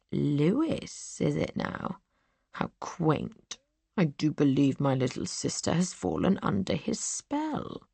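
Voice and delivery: soft, hushed sneer at her fiancé; mocking. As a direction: brother softly mocking his sister. Brother mocks sister's fiancé.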